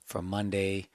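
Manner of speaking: hushed early-morning voice, holding it down; whispering. Real, not acted. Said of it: "Because I am fucking whispering".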